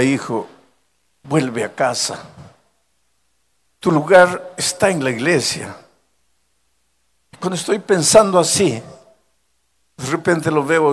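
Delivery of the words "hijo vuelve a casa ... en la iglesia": inner voice of God. Retold or imitated. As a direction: call the son back gently. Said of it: "una voz que me decía".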